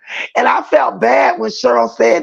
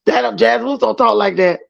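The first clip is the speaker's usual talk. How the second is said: normal talking voice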